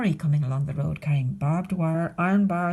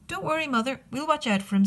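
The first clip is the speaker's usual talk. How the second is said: put-on higher, childlike wolf cubs; bright young wolf voices; little wolves; 6 semitones higher than usual. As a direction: chirp it like eager little cubs. Little wolves answer mother.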